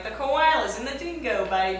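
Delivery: light Australian accent, wide mouth. Shown as a demonstration. Repeating the sister's test phrase, light Australian accent. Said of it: "it gets more intense".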